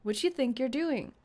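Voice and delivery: shaky grasp of British English; attempted British accent. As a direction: try a British accent, unsurely. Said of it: "I don't know how to talk British like this".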